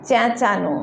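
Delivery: चेंचानो with the first vowel said a little through the nose; nasal vowel. Shown as a demonstration. Teacher demonstrates the nasal sound in चेंचानो to learners. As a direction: nasalize the start of चेंचानो, then a clear नो. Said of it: "देखिए मैंने एन लगाया है".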